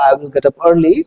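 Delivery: slow, word-by-word model sentence; slow spoken drill. Shown as a demonstration. Teacher models the sentence slowly for the class. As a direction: lay each word out slowly for learners. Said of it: "इनको पहले बोल के देख लेते हैं".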